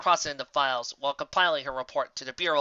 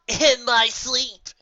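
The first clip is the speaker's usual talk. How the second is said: slow, drawn-out lazy brag, higher and louder; lazy boast; 9 semitones higher, 8 dB louder, much slower than usual. A narrator's reading. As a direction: toss it off like it's nothing. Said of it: "with a somewhat lazy boast".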